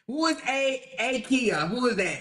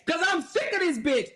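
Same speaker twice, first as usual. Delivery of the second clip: mock shout; 6 semitones higher than usual. Furious rant at judge.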